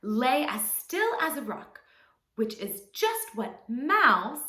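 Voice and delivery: expressive, measured storytelling; children's story narration. A narrator's reading. Teacher telling children a fable, expressive storytelling. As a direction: tell it to little ones, drawing out key words.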